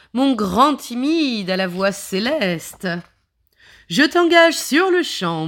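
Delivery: high, loud, gushing star; diva voice. Acted. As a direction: swoon over him like a diva. Lady Wawa, the star.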